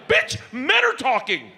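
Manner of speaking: high, slow squawk; hammed-up shushing of an intruder; mock indignant rebuke. Husband rebuking his interrupting wife, mock indignant.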